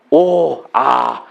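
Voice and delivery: low, quiet wondering "오, 아"; hushed marvel at a blessing; soft awed sigh. Shown as a demonstration. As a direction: breathe out "오, 아" softly in awe. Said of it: "한번 해볼까요?".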